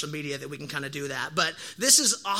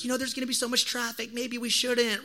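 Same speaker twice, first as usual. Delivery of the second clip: lightly voiced wife, higher pitched; hesitant wife; 4 semitones higher than usual. Wife worrying to husband about eclipse traffic, hesitant. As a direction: imitate a reluctant wife, pitched up.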